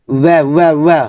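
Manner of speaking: clear, repeated Arabic syllables, each one said crisply; syllable drill. Shown as a demonstration. Teacher drills students on letter sounds, crisp repetition. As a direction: sound out তি again and again for the class. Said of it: "আমরা এইভাবে practice করবো".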